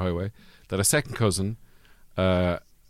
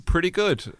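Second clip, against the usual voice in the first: booming stagey voice; grand theatrical delivery; commanding voice; 9 semitones higher, slower than usual. Acted. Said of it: "I sound very commanding".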